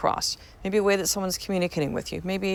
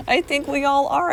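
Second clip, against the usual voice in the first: higher and louder, a rising, emphatic repeat; 7 semitones higher, 4 dB louder than usual. Real, not acted. Host repeats her whispered aside aloud to listeners, higher and louder. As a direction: say it out loud for all to hear.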